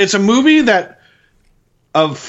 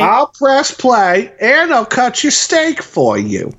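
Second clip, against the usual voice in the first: high, very slow doting mother; baby the listener like a fussing mom; mommy voice; 9 semitones higher, much slower than usual. Pretend.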